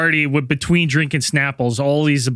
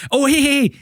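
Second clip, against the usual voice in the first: higher-pitched mock call to catch someone; imitated calling back; 10 semitones higher than usual. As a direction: call back a departing listener, playfully imitated.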